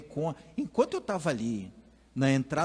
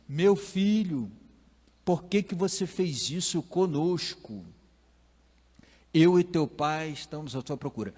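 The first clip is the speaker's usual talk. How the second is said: gentle ladylike mother; 2 semitones higher than usual. Pretend. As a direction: ask with calm grace, like a lady. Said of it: "Nossa Senhora foi uma lady".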